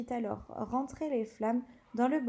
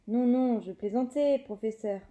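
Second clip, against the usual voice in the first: hasty protest; 4 dB louder than usual. Acted. Commentator caught by teacher.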